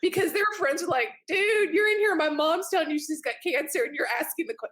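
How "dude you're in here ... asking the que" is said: much higher, exasperated "dude"; mock scolding teen. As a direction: tease the friend for asking. Kids scolding their friends.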